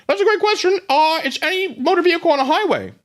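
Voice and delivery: high cheerful mock official voice; voice of California. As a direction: squeak it like a cheery know-it-all. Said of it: "that's the voice of California".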